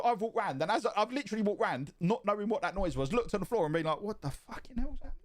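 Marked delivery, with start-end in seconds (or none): 4.0-5.1 much higher, baffled; a startled, bewildered question; confused shock. Retold or imitated. Confused at woman on floor.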